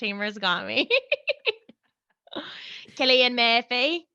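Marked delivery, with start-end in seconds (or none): 3.0-4.1 Cillian Murphy in an oddly twisted Irish lilt; botched Irish pronunciation of the name; weird attempted Irish accent. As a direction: have a clumsy go at an Irish accent. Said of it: "Sorry, that was weird".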